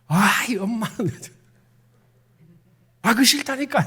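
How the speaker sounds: high, exasperated protest at mother. Retold or imitated. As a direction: snap back at mom, pitch jumping up. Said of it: "목소리가 높아지고".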